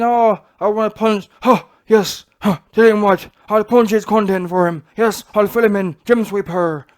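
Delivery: loud grunting boxer bravado; Tyson Fury impression. Mocking Fury's interview threats, loud hammed-up impression. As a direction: ham up Fury's huh-yes trash talk. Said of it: "you're in an interview, and you're saying".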